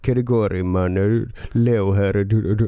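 falling tune of the impression; Leo Ajkic. Shown as a demonstration. Host demonstrates the intonation to colleague, imitating the greeting. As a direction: imitate his greeting, dropping at the end.

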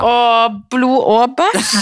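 slow, laughing exclamation. Real, not acted. Co-host laughing at the gross story. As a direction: laugh it out in disgust.

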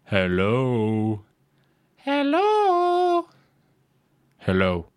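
eerie drawn-out hellos, one leaping very high; imitating creepy speaker voice. Imitating the toilet loudspeaker's eerie hellos. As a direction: mimic a spooky loudspeaker calling out. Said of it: "jeg skal prøve å etterligne det".

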